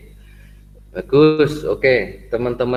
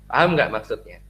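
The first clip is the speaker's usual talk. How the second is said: ordinary talk, nothing marked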